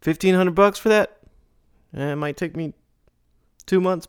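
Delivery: high squeaky voice, pushy; squeaky haggling client. Acted. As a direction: sound like a cheap client haggling. Voicing haggling exchange.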